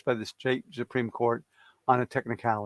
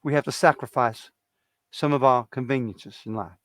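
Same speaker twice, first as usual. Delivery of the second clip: Jimmy Carter. Retold or imitated. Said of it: "I used to do a Jimmy Carter impression".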